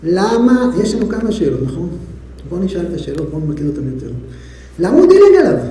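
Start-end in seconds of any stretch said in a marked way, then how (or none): 4.8-5.6 higher, louder, punching דילג; emphatic question. Shown as a demonstration. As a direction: demand it with force on דילג. Teacher poses the question emphatically.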